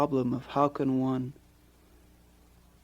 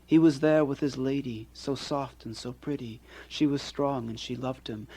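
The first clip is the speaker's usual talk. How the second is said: poetry reading. Acted. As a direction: read it like a poet sharing his own verse. Poet reads his poem aloud.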